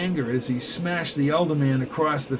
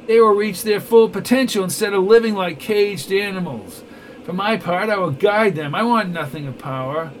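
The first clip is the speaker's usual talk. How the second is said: higher, louder self-righteous villain; smug villain; 4 semitones higher, 4 dB louder than usual. Acted. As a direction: sell his vision with cold pride. Neville boasts and threatens.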